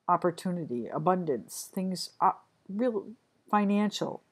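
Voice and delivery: real stumbling, halting words; stuttering. Real, not acted. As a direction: trip over the words, restarting. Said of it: "I'm stuttering too in this reading".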